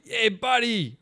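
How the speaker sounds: loud, high British street greeting; attempted British accent. Stranger greeting a tourist at night, bad British accent. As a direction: hail a pal in a shaky British accent. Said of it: "You're not great with accents".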